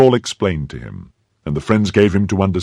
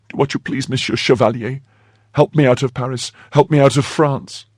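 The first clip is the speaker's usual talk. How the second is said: high, urgent maid's voice; pleading maid Kitty; 7 semitones higher than usual. A narrator's reading. Maid begging the chevalier for escape, high pleading. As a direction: beg for help in a high voice.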